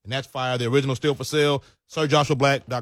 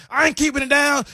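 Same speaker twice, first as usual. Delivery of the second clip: mock defiant heckler; 10 semitones higher, 4 dB louder than usual. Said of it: "She's cursing me out in the crowd".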